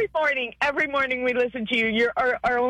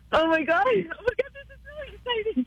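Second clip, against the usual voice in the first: overcome, crying happy tears; tearful excitement; 5 semitones higher than usual. Real, not acted. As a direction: let joyful tears break through. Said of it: "never be sorry for tears".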